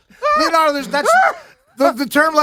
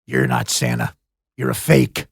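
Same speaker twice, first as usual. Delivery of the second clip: imitating Will Ferrell as Elf. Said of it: "talking to me as the Santa Claus".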